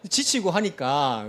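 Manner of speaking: slow, chuckling through the words; laughing. Real, not acted. Pastor chuckling to congregation about being worn out. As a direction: let a laugh break in as you say it. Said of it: "왜 웃습니까?".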